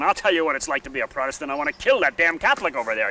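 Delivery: imitating an angry sectarian rant, fast; tossed off in a feisty put-on voice; a touch of a furious townsman; mock hostile quote. Quoted hostile Catholics and Protestants.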